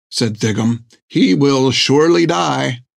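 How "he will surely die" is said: lightly raised, prim doctor voice; a prim, fussy gentleman. Acted. Doctor's blunt verdict.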